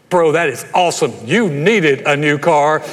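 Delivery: hyped-up congratulation, stretched out; big acted cheer for a friend; enthusiastic friend. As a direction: celebrate it loudly for a buddy. Acting a friend who celebrates with you.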